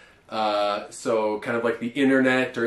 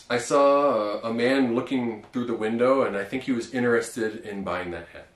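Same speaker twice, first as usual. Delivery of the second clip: example sentence. Shown as a demonstration. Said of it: "if you want to use the other pronunciation".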